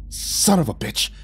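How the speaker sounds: drawn-out angry oath; growled curse. A narrator's reading. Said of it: "Johnny growled".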